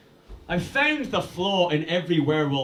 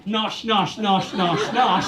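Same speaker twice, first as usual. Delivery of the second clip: mock munching noises; 2 semitones higher, slower than usual. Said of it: "You're going".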